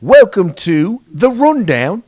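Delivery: loud, hammed-up Boston accent greeting; bad Boston accent. Host opens the show for listeners, badly faked Boston accent. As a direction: open big in a mock Boston accent. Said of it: "you could do a Boston accent".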